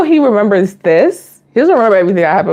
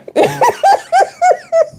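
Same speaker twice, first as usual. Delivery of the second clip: big laugh. Real, not acted. Laughing at own retort.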